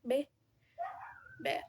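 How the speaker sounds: "Be" stopped at the lips, "ver" with lips only approaching; b then soft v demo. Shown as a demonstration. Student contrasting the two b sounds for classmates. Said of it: "Se juntan mis labios".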